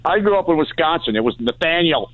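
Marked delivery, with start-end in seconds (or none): 1.4-2.1 mock parental scolding breaking into laughter; parent calling child in. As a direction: holler the full name to come inside. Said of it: "I heard my full name when I was in trouble".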